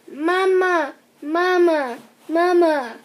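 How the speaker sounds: put-on little boy chirping for his mother. A narrator's reading. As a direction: chirp it like a small bird. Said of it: "chirped Philip".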